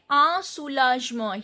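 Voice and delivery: "a soulagement" with no N in "a"; silent N. Shown as a demonstration. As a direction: leave "a" as a bare nasal vowel before "soulagement". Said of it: "I am not pronouncing this N".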